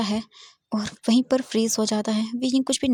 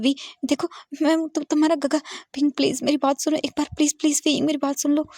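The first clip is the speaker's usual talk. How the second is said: higher, urgent begging; desperate pleading; 5 semitones higher than usual. Acted. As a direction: beg him to just listen. Wang Ji begs crying Wei Ying. (ऊँची, बेचैन विनती भरी आवाज़)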